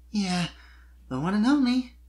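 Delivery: light laugh. A narrator's reading. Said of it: "she responded with a small laugh".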